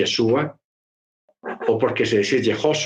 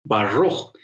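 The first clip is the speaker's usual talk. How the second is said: "Baruch" in an imitated American accent; acento gringo; 3 semitones lower than usual. Shown as a demonstration. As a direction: mimic an American's English r in "Baruch". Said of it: "él dice Baruch". (acento americano imitado)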